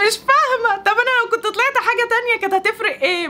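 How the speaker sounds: high, giggly voice through laughter; real laughter riding on the words; laughing in disbelief. Real, not acted. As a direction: laugh your way through the question. Bursts out laughing at odd comments.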